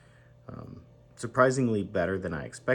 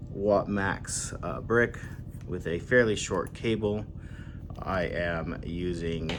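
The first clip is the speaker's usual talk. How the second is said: louder, slower, over the rotor noise; yelling over helicopter; 3 dB louder, slower than usual. Real, not acted. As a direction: raise your voice over a helicopter. Helicopter overhead, apologizes after.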